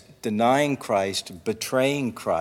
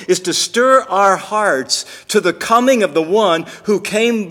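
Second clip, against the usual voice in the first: higher, driving pulpit delivery; raised, emphatic sermon voice; impassioned preaching; 6 semitones higher, 6 dB louder than usual. Real, not acted. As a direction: preach it with urgent insistence. Preaches with rising force.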